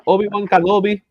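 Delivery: light mock-Spanish delivery of the name; playful Spanish accent. Host justifying himself to co-host, playful Spanish accent. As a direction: demonstrate the put-on Spanish accent. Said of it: "I'm gonna say things in Spanish dialect".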